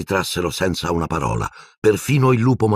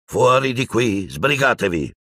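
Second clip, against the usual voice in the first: commanding order; 6 semitones higher than usual. A narrator's reading. Piton orders Death Eaters out, commanding. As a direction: order them out firmly. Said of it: "ordinò Piton".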